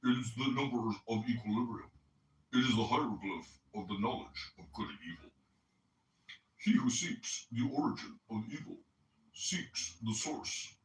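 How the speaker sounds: lightly put-on nasal voice, reading aloud; mock a friend's nasal voice while reading; a hint of a nasally Chicagoan read; mock Coptic. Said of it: "imitate Coptic as I read".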